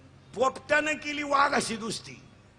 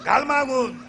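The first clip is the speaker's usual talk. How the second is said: louder stern command; loud order; 3 semitones higher, 4 dB louder than usual. Retold or imitated. Doctor to the compounder, a loud order. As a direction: snap it at the assistant. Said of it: "कंपाऊंडरला सांगितलं".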